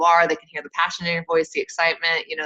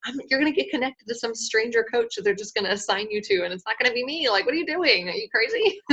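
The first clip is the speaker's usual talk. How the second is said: higher, softly incredulous scolding; mock disbelief; 5 semitones higher, 4 dB quieter than usual. Coach to someone choosing a stranger, mock-incredulous scolding. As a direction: let the pitch climb into laughing disbelief.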